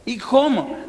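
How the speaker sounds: high, loud, baffled comeback; incredulous. Retold or imitated. Father doubting the doctor's reassurance about the head, incredulous. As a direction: demand an answer in comic disbelief.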